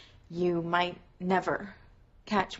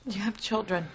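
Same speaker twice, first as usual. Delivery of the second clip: whisper. Acted. Pressing him in hushed talk.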